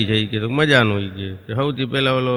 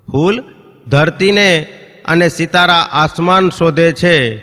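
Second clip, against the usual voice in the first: louder, slow declaiming of the couplet; ફૂલ and ધરતીને each set apart, louder and slow; emphatic recital; 2 semitones higher, 4 dB louder, slower than usual. Shown as a demonstration. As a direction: land the line on stage, fully projected. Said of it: "કે ફૂલ ધરતીને અને સિતારા આસમાન શોધે છે".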